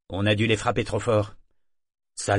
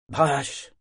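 voix croissante; 5 semitones higher, 3 dB louder than usual. A narrator's reading. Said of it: "d'une voix croissante".

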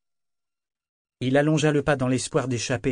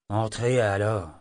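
funereal voice; slower than usual. Acted. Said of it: "d'une voix funèbre".

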